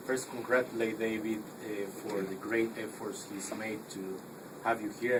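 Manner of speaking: normal talking voice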